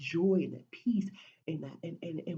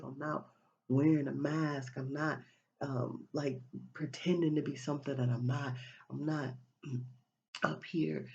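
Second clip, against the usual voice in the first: lower, unhurried, at peace with himself; calm, self-assured; 5 semitones lower than usual. Retold or imitated. A person true to themselves, speaking calmly. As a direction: settle into a relaxed inner voice.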